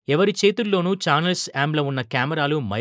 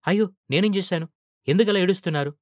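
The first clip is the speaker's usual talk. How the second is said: higher, alarmed cry; panicked hero fussing over a crying man; startled and worried, pitched higher; flustered; 5 semitones higher than usual. Acted. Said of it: "మహా కంగారు పడ్డారు".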